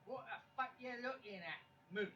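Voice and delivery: New York cow. Retold or imitated. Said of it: "New Yorker cow".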